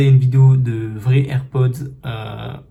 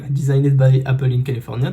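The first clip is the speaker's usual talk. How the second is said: French-accented English; 3 dB louder than usual. Real, not acted. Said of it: "toujours pareil".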